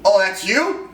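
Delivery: mock surprised question, rising at the end; retold surprise. Client seeing his photo, retold in surprise. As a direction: imitate a client's mild double-take.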